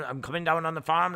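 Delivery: put-on Norfolk farm talk; mock Norfolk country accent; thick Norfolk accent. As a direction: imitate a thick rural Norfolk speaker. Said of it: "Norfolk type accent".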